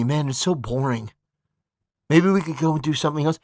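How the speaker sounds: low-pitched, grumbling bored husband; mock bored griping. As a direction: mimic him moaning to his wife during church. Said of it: "he's sitting there talking to his wife during church".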